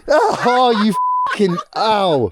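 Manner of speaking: sharp yelp of pain; stung and crying out ow; wound being cleaned. Real, not acted. Something stings her, she yelps.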